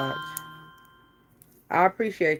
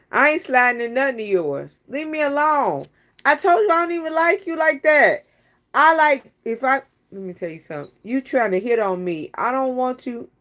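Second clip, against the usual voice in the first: higher and louder, playful dismissal; mock brush-off; 5 semitones higher, 4 dB louder than usual. Acting out turning down Tiffany, mock brush-off. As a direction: push her away jokingly.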